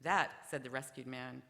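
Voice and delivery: punchline said through a laugh; deadpan joke ending that cracks into laughter. Acted. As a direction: chuckle your way through the final line.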